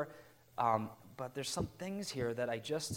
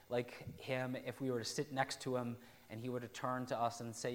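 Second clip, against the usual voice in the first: ordinary talk, nothing marked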